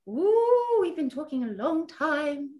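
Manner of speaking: sharp high gasp of surprise; surprised gasp. Real, not acted. Noticing the late hour, a real surprised gasp. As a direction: gasp as the time sinks in.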